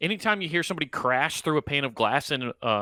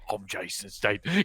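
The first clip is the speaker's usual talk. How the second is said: Statham reset line; 4 semitones lower, 5 dB quieter than usual. Shown as a demonstration. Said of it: "reset my Jason Statham voice".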